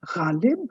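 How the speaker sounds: "Ghalib" opening with throaty gh; Urdu guttural gh. Shown as a demonstration. Teacher citing Urdu words, guttural gh. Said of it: "heard the Urdu words".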